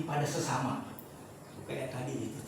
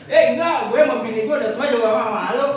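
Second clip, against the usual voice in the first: loud, fast, higher husband brushing it off; mock embarrassed husband; 5 semitones higher, 9 dB louder than usual. Preacher voices a husband too shy to touch his wife, loud and fast. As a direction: play the shy old husband, loud and quick.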